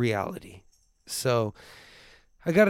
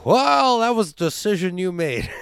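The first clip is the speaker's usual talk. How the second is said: mock snarky retort; 3 semitones higher, 6 dB louder than usual. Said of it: "I go".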